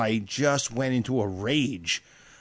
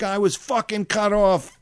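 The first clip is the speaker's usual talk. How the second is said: retold angry yell; 6 semitones higher, slower than usual. Yelling at the other car.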